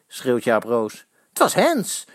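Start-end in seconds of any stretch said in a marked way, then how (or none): 1.3-2.1 shouting. A narrator's reading. Fans arguing with rival fans, shouted insistence. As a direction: call out that it was handball. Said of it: "roepen Eddy".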